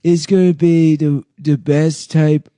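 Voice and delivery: lightly put-on impression voice; Donald Trump. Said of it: "Trump with a retarded voice".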